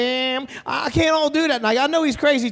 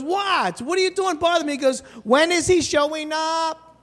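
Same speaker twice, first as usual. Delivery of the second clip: put-on higher puzzled child; kid voice; 5 semitones higher than usual. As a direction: ask like a confused little boy.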